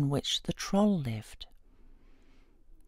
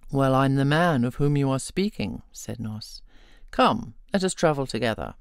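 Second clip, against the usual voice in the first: lower, unhurried voice for the strong hero; Nos, a hero in a fairy tale; 5 semitones lower than usual. Acted. Nos tells the strong man who he is, lower and calm. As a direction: speak low and steady, sure of himself.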